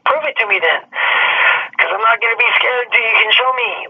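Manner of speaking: mock defiant challenge to an intimidator; defiant dare. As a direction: dare them to prove it. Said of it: "I just bulge up the other way".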